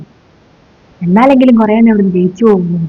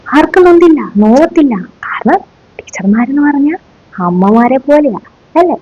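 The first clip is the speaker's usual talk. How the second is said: mock sugary; 4 semitones higher than usual. Teacher claims caning didn't hurt.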